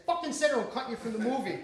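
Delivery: re-enacted exasperated order; retold threat. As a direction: rattle off a director's threat. Retold argument with wife over line.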